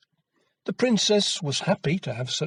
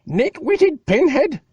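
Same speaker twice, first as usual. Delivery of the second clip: high, loud, slow shriek; drawn-out shrill insult; shouted insult; 14 semitones higher, 6 dB louder, slower than usual. A narrator's reading. Mother shouting at Jack over the ruined cake. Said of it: "shouted his mother".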